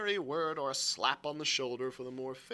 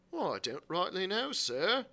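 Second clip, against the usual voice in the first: hesitant sailor; 5 semitones higher than usual. Acted. Morgan answers the angry landlord.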